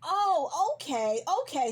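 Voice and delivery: mock-indignant, pitch swooping up on the second Oh; jealous anger. Lover finds out Louis is worried about Daniel, jealous anger. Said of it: "So he's already angry. He's already jealous of Daniel".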